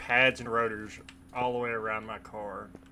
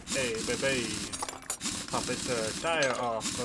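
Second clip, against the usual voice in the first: bad Mario accent. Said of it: "my accents are terrible".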